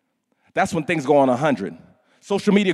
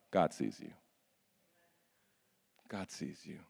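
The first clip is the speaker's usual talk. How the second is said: much softer, lower and tender; soft intimate; 12 semitones lower, 20 dB quieter than usual. Acted. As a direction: lay it gently on each heart. Intimate repeated message.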